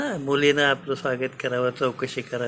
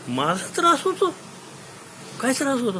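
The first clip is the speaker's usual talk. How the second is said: outraged king; 11 semitones higher than usual. Acted. King outraged at daughter's complaint.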